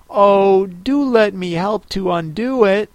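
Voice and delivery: put-on a light girlish offer to help; eager Alice.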